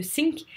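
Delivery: "think" pronounced "sink". Shown as a demonstration. Teacher explaining the mix-up with couler, "think" as "sink". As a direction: say "think" with a simple S at the start. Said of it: "avec le, le think".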